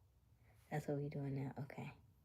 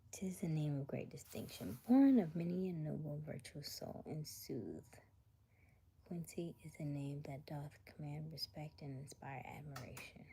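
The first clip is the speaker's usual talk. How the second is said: quiet archaic whisper read; mock Shakespearean reading; 4 dB quieter than usual. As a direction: read it like an old bard, hushed. Reading mock old English praise.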